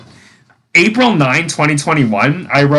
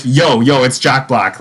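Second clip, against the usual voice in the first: laid-back "Yo, yo, it's Jack Black" at normal pitch; easy, offhand "it's Jack Black"; casual teen corrected. Retold or imitated. Teen coolly giving the hangman answer, relaxed. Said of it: "no, no, he was like".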